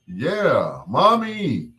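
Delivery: high pitched mommy, half mock; echoing the cry. Echoing Anthony Junior's cry while grieving, high. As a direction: echo the kid's cry, going high. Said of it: "I was like".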